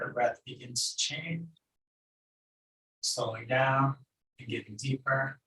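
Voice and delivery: calm meditation guide with long pauses; unhurried, even meditation instruction; guided meditation. Acted. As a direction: guide them gently inward, leaving long silences.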